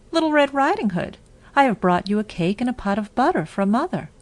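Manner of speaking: put-on high, quick eager child; girl greeting her grandmother through the door; little girl's voice. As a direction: sing it out brightly as a young girl. Girl announces herself at the door.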